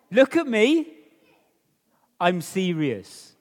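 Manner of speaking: parent being serious. Retold or imitated. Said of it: "your mum or dad say this to you".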